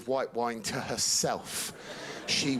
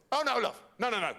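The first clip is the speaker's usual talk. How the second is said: mum voice; 5 semitones higher than usual. Retold or imitated. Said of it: "this is a quote".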